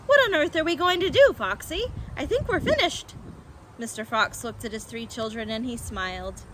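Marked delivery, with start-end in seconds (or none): 0.1-3.1 high, agitated plea; panicked despair. A narrator's reading. Badger asking Fox what to do, panicked. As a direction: wail that all is lost.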